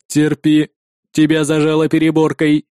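a machine weighing whether to save him; cold android voice. Acted. Android answers calmly.

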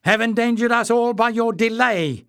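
furious retort. Acted. Clef hurling blame at Warren, furious and high. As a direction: retort in a fury. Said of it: "Clef retorted furiously".

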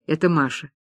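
plain reading voice

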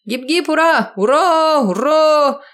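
very high, loud cheering. Acted. Partygoers cheering for the neighbour, loud high cheer. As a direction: cheer at full voice.

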